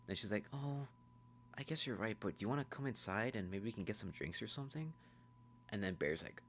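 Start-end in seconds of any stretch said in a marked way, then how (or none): 0.5-4.9 lightly voiced higher girl; slightly softer, higher imitation; Nikki. Nikki invites Bear inside, light high-voiced imitation.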